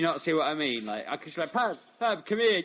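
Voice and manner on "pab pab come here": much higher and louder, sing-song call; silly calling voice. Pretend. Mocking friend, calls Pab over in squeaky voice.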